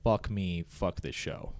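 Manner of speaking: low, hushed curse under the breath; muttered under breath. Retold or imitated. Cameraman cursing under breath as broadcast goes live, hushed. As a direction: mutter it so nobody hears. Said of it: "I whisper underneath my breath".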